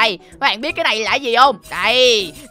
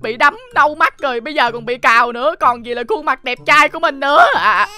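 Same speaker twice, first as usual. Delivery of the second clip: whiny fake crying; 3 semitones higher than usual. Scratched, whining and crying.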